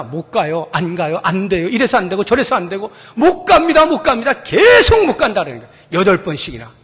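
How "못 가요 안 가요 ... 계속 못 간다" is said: mock stubborn excuses. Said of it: "여덟 번을 변명합니다".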